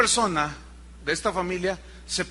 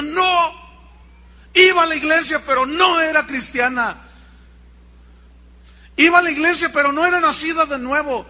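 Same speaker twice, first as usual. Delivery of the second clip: high, loud insistence repeating "Iba a la iglesia"; insistent reply; 7 semitones higher, 6 dB louder than usual. Retold or imitated. Daughter insisting to her mother she wasn't a Christian, loud.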